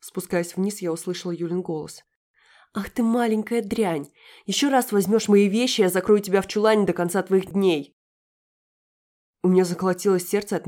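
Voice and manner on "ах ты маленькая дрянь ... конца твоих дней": высокий, громкий злой крик, начало медленно; визгливо бранись на ребёнка; злобный крик. Acted. Юля кричит на девочку. (злобная брань Юли на Дашу)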